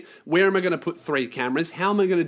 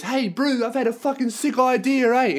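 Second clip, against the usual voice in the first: high-pitched mock Kiwi bro; wasted Kiwi guy; 7 semitones higher than usual. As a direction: imitate an off-his-face Kiwi pitching his idea. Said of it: "this Kiwi guy walks in".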